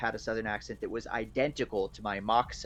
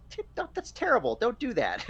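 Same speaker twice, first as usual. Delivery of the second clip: high, loud mock horror; imitated appalled partner; 13 semitones higher, 5 dB louder than usual. Partner objecting to an old Southern phrase, mock appalled. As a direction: scold in a much higher, louder voice. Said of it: "and he was like".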